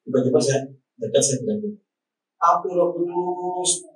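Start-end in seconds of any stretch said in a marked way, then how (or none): 2.4-3.8 solemn slow declaration. Retold or imitated.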